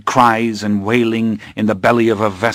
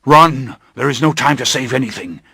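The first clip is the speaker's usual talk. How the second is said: urgent shout; 4 semitones higher than usual. Acted. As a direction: shout it, then rush the rest fast. Master urging escape from fire.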